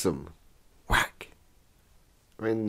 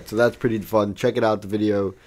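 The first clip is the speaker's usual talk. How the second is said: ordinary talk, nothing marked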